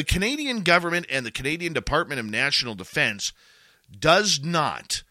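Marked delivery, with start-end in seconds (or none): 4.0-5.0 "does not" punched higher and louder; stress on DOES NOT. Real, not acted. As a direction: hit "does not" hard. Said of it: "I repeat".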